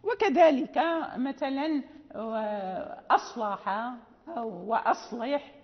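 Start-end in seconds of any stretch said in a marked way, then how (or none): 3.1-3.7 "أصلح" with a thin first "a" before heavy ṣad; lowered hamza. Shown as a demonstration. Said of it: "ننطق بالهمزة منسف". 4.7-5.5 "وأصلح" with a light hamza before the heavy ṣad; lowered hamza. Shown as a demonstration. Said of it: "ننطق بالهمزة منسف".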